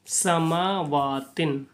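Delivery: "समावातिन" with long drawn-out vowels; measured, lingering "समावातिन"; slow elongated recitation. Shown as a demonstration. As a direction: stretch "समावातिन" slowly, syllable by syllable. Joined word recited after spelling it.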